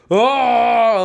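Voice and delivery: long high mock cry of "oh"; horrified "oh". Pledge seeing the prank up close, mock-horrified cry. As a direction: draw out a high, appalled "oh". Acting out his horrified sight.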